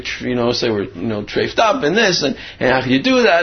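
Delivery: mock tirade, mildly heated; upset scolding. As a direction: imitate an upset rabbi scolding, without really shouting. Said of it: "he's all upset, screaming at".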